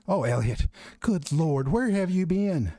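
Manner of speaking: relieved but frantic mother; worried mom. Acted. Mom asks Elliot on the phone where he's been, worried.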